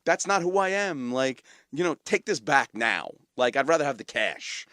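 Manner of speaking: dad turning down a Rolex, mock stubborn; dad's stubborn refusal. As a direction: play the dad brushing off a gift. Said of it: "He was like".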